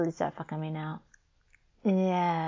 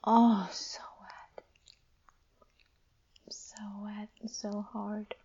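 breathy whisper; 3 semitones higher, slower than usual. Acted. Post-climax breathy.

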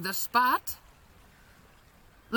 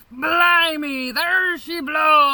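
higher, louder pirate shout; 7 semitones higher, 6 dB louder, slower than usual. Acted. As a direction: cry it out like a lookout. Pirate climax cry.

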